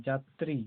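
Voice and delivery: যাত্রী with ত and র both audible; both ত and র sounded. Shown as a demonstration. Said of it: "তর দুটাই উচ্চারণ হচ্ছে".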